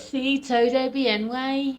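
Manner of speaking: slow Scouse-accented Spanish. Shown as a demonstration. Showing co-host Spanish in a British accent, Scouse. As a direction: stretch it out in Scouse. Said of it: "I think Scouse goes quite well".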